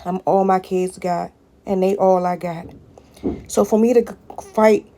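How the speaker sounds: pushing through fury and exhaustion; real anger. Real, not acted. Single mother explaining her fight to viewers, loud and exasperated.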